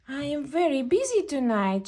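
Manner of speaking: a hurried fairy, lightly voiced; a hint of a busy fairy; tooth fairy voice.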